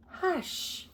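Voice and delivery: a soft breathy whispered hush. Acted. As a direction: whisper it like a little old lady hushing.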